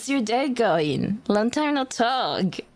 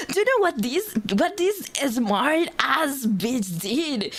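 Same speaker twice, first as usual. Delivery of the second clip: high, indignant rant; exasperated outburst; 5 semitones higher than usual. Real, not acted. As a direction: vent at the cousin's stupidity. Exasperated rant about cousin.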